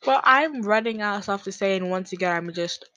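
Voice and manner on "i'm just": slow, stretched-out, singsong rambling; drawn-out rambling. Pretend. Podcaster filling time with nothing to say, rambling slowly. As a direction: drag out every repeated word as you ramble. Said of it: "I'm doing it again".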